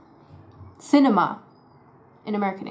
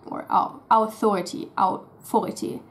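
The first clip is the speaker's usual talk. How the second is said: German au in authority. Shown as a demonstration. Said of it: "they might say stuff like".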